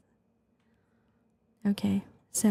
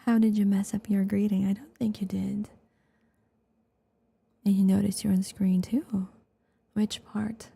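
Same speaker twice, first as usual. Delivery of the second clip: ASMR whisper. Real, not acted. ASMR streamer thanking viewers, whispering.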